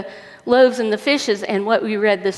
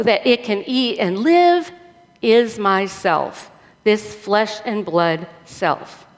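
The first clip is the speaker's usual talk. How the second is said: measured public Bible reading with emphatic key words; scripture reading. Real, not acted. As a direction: read scripture out to a congregation. Reads scripture aloud to congregation.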